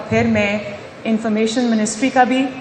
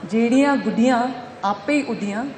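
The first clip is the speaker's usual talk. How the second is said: verse recitation. Acted. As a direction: recite the couplet phrase by phrase, then lift it. Recites a Punjabi couplet. (ਸ਼ਿਅਰ ਪੜ੍ਹਨ ਦਾ ਅੰਦਾਜ਼)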